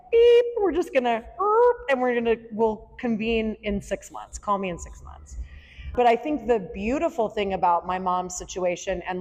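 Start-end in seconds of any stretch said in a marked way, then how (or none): 0.1-5.4 mock shutdown voice. Shutting down her feelings, mock robotic brush-off. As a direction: play yourself switching off like a machine. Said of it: "my go-to is, like".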